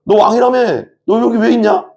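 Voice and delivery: high-pitched jeering challenge; mocking taunt. Soldiers challenging Jesus about being king, mocking. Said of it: "막 이런 거죠".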